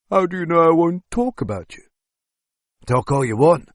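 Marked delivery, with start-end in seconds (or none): 0.1-1.8 higher, scared prisoner voice; frightened captive. Acted. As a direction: plead as the terrified captive.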